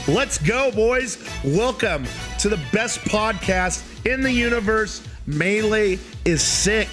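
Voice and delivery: high, hyped bro intro; pumped-up party bro greeting; frat bro. Acted. Hyped podcast intro, bro energy.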